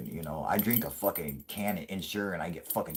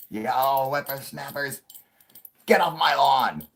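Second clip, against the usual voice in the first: high, loud get-off-my-lawn geezer; cranky old-timer shouting, much higher and louder; grumpy old man yelling; 7 semitones higher, 8 dB louder, slower than usual. Pretend. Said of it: "I just start yelling at kids".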